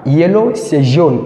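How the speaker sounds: slow, careful Yellow; teacher pacing it for learners; slow explanation. Shown as a demonstration. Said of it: "A yellow car". (Yellow, dit lentement)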